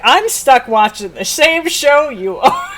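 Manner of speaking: exasperated protest. Retold or imitated. Rational self protesting.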